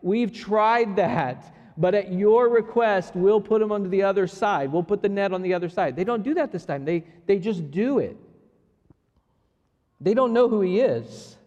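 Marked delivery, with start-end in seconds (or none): 0.0-6.0 irritated. Retold or imitated. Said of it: "irritation inside".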